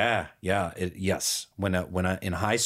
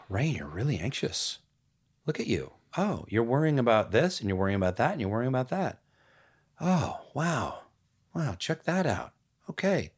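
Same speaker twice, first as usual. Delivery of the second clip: gentle self-talk; 2 semitones higher than usual. Retold or imitated. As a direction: soothe yourself after a sigh. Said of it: "take a deep breath".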